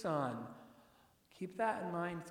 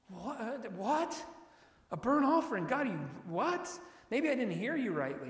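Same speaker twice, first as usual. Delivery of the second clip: shocked disbelief; 4 semitones higher than usual. Retold or imitated. Abraham's imagined shocked reaction.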